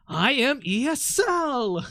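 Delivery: slow words through a laugh; a real laugh through the words. Real, not acted. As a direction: laugh while saying it. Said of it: "What the fuck?".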